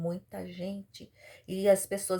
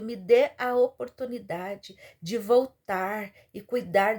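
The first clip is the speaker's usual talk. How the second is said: raised-voice desperate plea, retold; imitated crying out; 3 semitones higher, 4 dB louder than usual. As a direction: cry out to God, pushing the key words. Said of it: "ela começou a gritar, ela começou a chorar". (clamor de súplica encenado, em voz alta)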